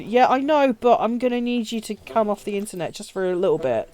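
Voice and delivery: mildly coaxing reply to a protesting brother; nice soft voice. Retold or imitated. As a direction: placate gently, easing down towards the end. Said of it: "in a very nice and soft voice".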